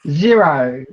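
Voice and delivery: "Zero" said with Aussie vowels, low and firm; Australian "Zero" on request. Shown as a demonstration. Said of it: "Say zero".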